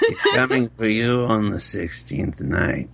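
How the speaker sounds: lightly spooky warning, breaking into laughter; a hint of a creepy prophet; devil voice. Warning a phone scammer, lightly spooky and laughing. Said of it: "Do the devil thing".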